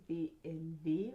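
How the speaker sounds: B M W said as German "bay em vay"; German pronunciation. Shown as a demonstration. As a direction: give B M W its German letters, W as "vay".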